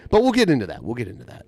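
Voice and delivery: jeering singsong tease; teasing. Acted. Teasing the spoiler drama.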